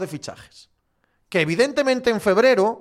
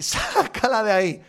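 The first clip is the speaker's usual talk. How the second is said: laughing yell; 4 semitones higher, slower than usual. Retold or imitated. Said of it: "grite la grada".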